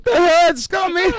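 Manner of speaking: laughing. Real, not acted. Laughing reaction.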